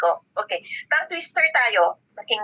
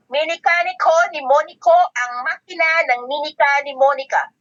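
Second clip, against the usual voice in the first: tongue twister demo. Shown as a demonstration. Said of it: "Tingnan mo si coach kung paano ko pagsalitain".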